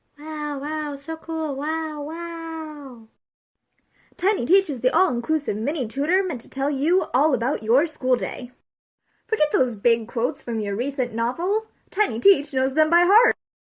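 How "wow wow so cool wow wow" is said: very slow, quiet, drawn-out, zero enthusiasm. Cheering the product in an ad for Tiny Teach, without enthusiasm. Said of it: "(Without enthusiasm)".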